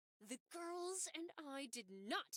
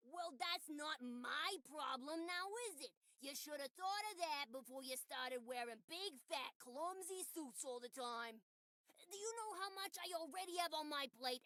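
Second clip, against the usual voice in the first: scolding character voice. Acted. Plays scolding NPC.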